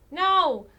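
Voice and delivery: loud, high, drawn-out no's; wailed protest. Real, not acted. Streamer refusing what the game offers, wailed protest. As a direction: build from protest to a wail.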